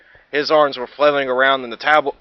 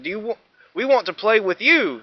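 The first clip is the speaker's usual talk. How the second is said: inviting; 8 semitones higher than usual. Acted. Dinos invite Minosaur.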